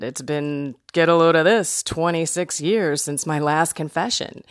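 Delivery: comic build-up to a punchline; jokey confession, punching up the aside; like a comedian. Acted. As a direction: make light of it like a stand-up. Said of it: "Saying it like a complete comedian".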